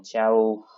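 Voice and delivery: "ciao" stretched out slowly; slow teacher reading of "ciao"; drawn-out reading. Shown as a demonstration. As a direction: read "ciao" slowly for the class. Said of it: "you got to find the French words".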